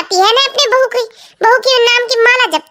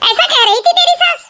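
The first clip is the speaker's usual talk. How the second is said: shocked disbelief; 7 semitones higher than usual. Acted. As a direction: pitch jumps up in disbelief. Neighbour shocked by the gossip. (ऊँची आवाज़ में हैरानी से पूछना)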